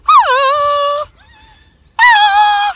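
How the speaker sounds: loud, high mock Tarzan yodel; Tarzan call. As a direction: belt it out like Tarzan calling through the jungle. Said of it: "he's doing his Tarzan call".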